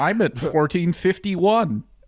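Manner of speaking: over-the-top American accent. Right after exaggerated american accents are called stupid-sounding: exaggerated american accent. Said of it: "in like an exaggerated American accent".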